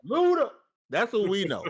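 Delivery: high, loud hyped call of the name; excited. Real, not acted.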